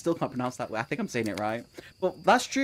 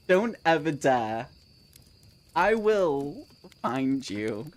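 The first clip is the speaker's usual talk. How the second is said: mock threat; much slower than usual.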